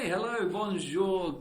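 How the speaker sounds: slow, big greeting; drawn-out loud hello. Acted. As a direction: stretch the hello. Greeting said twice.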